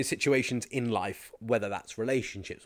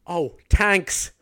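loud, high Irish "tanks"; put-on Irish accent; 7 semitones higher, 7 dB louder than usual. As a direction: blurt "tanks" with an Irish hard T. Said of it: "in an Irish accent".

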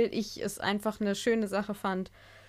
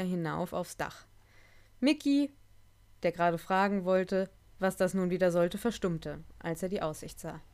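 measured read-aloud storytelling, livelier in the dialogue; story narration; 3 semitones lower, 4 dB quieter than usual. A narrator's reading. Reads a Rose and Mickey story to listeners, story narration.

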